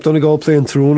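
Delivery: ordinary delivery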